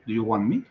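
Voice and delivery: "want" said "wan", T dropped before "me"; silent T in want. Shown as a demonstration. Teacher showing the class, "want" with silent T. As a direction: swallow the T of "want". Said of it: "esa T no se pronuncia".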